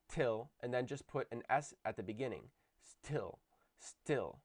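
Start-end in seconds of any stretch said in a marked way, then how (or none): 2.8-4.4 "Still" with a long s and no puff of air on the t; exaggerated unaspirated t. Shown as a demonstration. Teacher exaggerating still without aspiration. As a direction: lean on the s, keep the t dry. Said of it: "I'm exaggerating a little bit".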